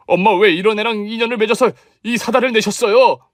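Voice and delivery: exasperated. Acted. Husband berates his mother.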